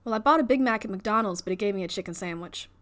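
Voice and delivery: light, legit Southern accent. Shown as a demonstration. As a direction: try a believable Southern accent. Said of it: "what Southern route to go".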